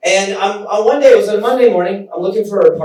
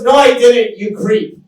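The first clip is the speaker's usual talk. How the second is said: higher, louder start, dropping on the insult; mock indignant retort; 4 semitones higher, 3 dB louder than usual. Woman rejecting the man waiting for her spot, indignant retort. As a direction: imitate an offended denial. Woman snaps back in retold quarrel.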